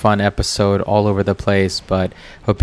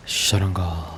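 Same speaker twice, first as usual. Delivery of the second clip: "Sharanga" in a light Indian accent, open ah vowels, tapped r; mock Indian accent on "Sharanga"; 5 dB quieter than usual. Shown as a demonstration. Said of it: "To say it with an Indian accent".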